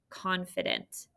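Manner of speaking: "confident" whispered, no voice. Shown as a demonstration. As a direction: breathe the word softly to them.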